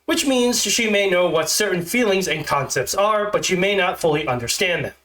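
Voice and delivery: stiff, awkward script reading; stilted robot reading. Shown as a demonstration. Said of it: "if it sounds like I'm a stilted robot".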